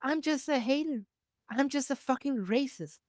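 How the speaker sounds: high mocking voice; mock confession. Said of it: "Just come and say".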